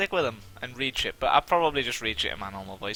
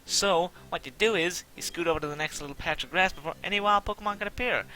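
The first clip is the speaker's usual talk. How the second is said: put-on rival kid voice; 6 semitones higher than usual. Reads rival dialogue in voice.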